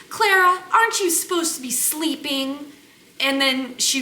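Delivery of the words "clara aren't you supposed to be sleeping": mimicked chiding. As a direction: imitate a busybody chiding a baby. Acting out attendant chiding baby.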